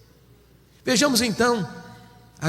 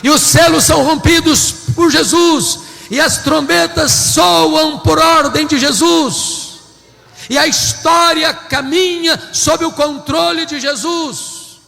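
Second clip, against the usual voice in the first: higher, louder, slowed proclamation; triumphant preaching; 7 semitones higher, 8 dB louder than usual. Acted. Preacher to his congregation, triumphant climax. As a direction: ring out Jesus' victory.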